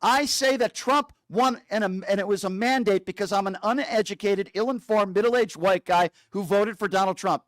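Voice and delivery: spoon-feed the confession word by word; dictated line. Shown as a demonstration. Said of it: "Repeat after me".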